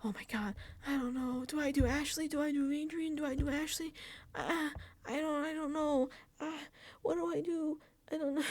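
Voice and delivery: mock panic. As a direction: flap between choices like she's spiralling. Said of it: "She was like".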